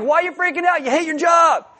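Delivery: mock exasperated yell at a complainer; incredulous mock shout. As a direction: throw the question back at them in disbelief. Mocking someone who hated job.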